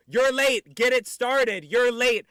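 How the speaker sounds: high, loud mock complaint; mocking nag. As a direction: shout it like a nagging heckler. Mocking chat's nagging complaint.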